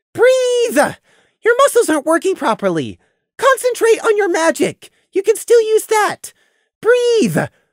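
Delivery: squeaky, panicked, very high-pitched voice. Prey urges Lemon, who won't wake up, in a squeaky panicked voice. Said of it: "Prey's voice was squeaky in panic".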